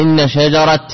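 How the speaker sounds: إن شجرة ending shajarat with a final t; pausal t ending. Shown as a demonstration. Teacher shows the reciters' t pause, شجرة ending in t. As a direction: close شجرة on a crisp t. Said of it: "يقف عليه بالتاء".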